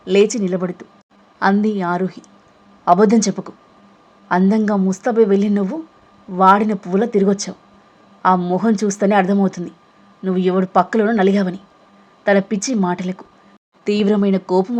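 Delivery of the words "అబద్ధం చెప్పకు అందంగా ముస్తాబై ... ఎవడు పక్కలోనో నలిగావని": angry. Acted. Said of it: "కోపంగా చూస్తూ".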